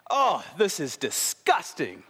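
put-on slow, drawn-out kid's revulsion; hammed-up "this is disgusting"; mock disgust. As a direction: imitate a fussy child's disgust. Acts six-year-old hating dinner.

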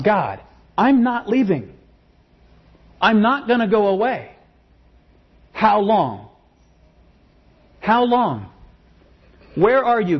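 high, pleading, insistent cry; crying out to God. Retold or imitated. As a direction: refuse to leave, begging God. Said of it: "crying out".

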